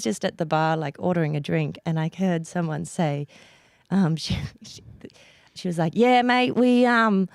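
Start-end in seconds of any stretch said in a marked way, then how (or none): 5.9-7.3 half-confident bogan Australian imitation; bogan accent. Retelling Australians overheard at the bar, bogan accent. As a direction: imitate a broad bogan Australian, slightly raised pitch. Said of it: "I can't do it really well".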